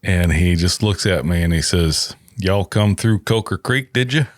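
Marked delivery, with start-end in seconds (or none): 2.4-4.2 lightly put-on Southern accent; thick Southern accent. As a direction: imitate a Southern local asking a question. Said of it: "got this real thick Southern accent".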